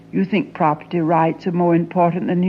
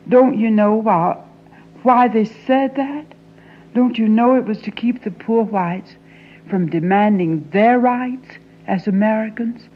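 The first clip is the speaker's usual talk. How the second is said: raised voice; 3 semitones higher, 3 dB louder than usual. Acted. Confronting father angrily.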